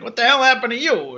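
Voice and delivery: incredulous quoted question; mock astonishment. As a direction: act out a taken-aback friend. Acting out Sean's shocked question.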